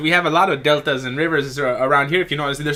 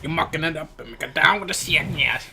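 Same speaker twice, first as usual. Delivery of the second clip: put-on Minnesotan accent; 5 dB quieter than usual. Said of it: "Canadian slash Minnesotan".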